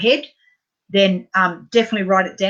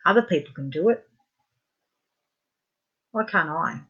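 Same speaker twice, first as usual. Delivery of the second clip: guided EFT tapping affirmations, fading softer at the end; tapping script; 4 semitones lower, 6 dB quieter than usual. Acted. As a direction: say each phrase quietly and let it sink in.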